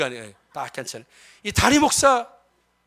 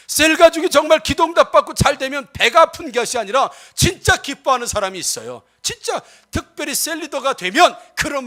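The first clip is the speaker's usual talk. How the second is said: forceful sermon with punched key words; emphatic pulpit exhortation; impassioned preaching; 4 semitones higher, 9 dB louder than usual. Real, not acted. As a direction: preach it out with drive, stretching key phrases. Preaches to the congregation.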